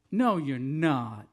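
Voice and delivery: loud, slow Southern refusal; southern accent. Retold or imitated. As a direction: imitate a southern guard flatly contradicting someone. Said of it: "he said in a southern accent".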